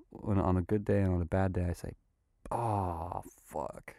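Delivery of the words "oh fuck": soft curse under his breath; quietly swearing at himself in the bath; muttered curse. Retold or imitated. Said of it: "I usually say to myself".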